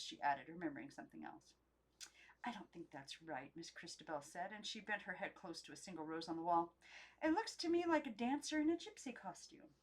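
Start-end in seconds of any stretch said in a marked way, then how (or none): 2.4-3.6 hushed doubt. Acted. Christabel disagrees softly. 7.2-9.8 high, lilting fanciful voice; picture a dancer as you speak; the doll admiring a rose; dreamy doll. Acted.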